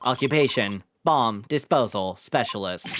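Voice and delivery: flat synthetic robot speech. Acted. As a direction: read it like a machine. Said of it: "what a strange robotic voice you have".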